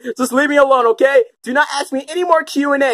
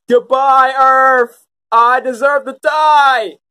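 melodramatic farewell; 4 dB louder, slower than usual. Acted.

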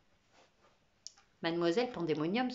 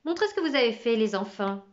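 consigne lancée fort aux élèves; exclamation de maîtresse; 6 dB louder than usual. Acted. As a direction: appelle la classe avec élan. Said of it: "s'écria mademoiselle Pandémonium". (maîtresse qui s'écrie)

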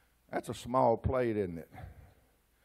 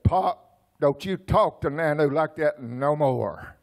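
ready for battle; 3 semitones higher, 6 dB louder, slower than usual. Retold or imitated. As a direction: imitate a grandson squaring up to Pop. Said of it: "he was ready for battle".

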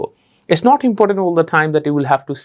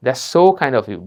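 heartfelt, eyes half closed; 3 semitones lower, much slower than usual. Shown as a demonstration. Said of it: "চোখটা একটু হালকা করে বন্ধ হবে".

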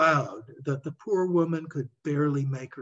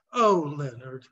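dismayed sigh. Acted. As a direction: sigh his name in dismay. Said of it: "shook her head in dismay".

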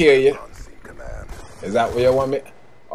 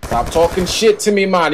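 raised, more forceful warning; insistent repeat; 3 semitones higher than usual. Real, not acted. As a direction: press the warning on someone who ignored it. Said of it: "You didn't hear me say?".

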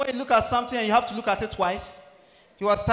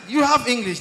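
1 shouted tease; 4 semitones higher, 7 dB louder than usual. Real, not acted. Comic teases audience member.

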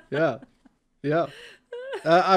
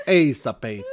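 Finnish accent; 4 semitones lower, 4 dB louder than usual. Shown as a demonstration. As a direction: lower Finnish demo with breathy end. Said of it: "Finnish sounds like this".

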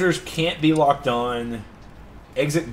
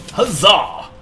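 mock cheer; 4 semitones higher, 7 dB louder than usual. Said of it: "Old-timey English".

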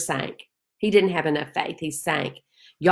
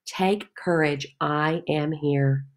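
calm reading; 3 semitones lower, slower than usual. Shown as a demonstration. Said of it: "we just want those words to wash over us".

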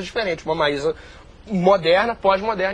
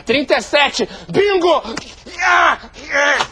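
high, loud bingo shout; excited shout; 6 semitones higher, 3 dB louder, much slower than usual. Acted. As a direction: yell bingo in triumph. Old man winning bingo.

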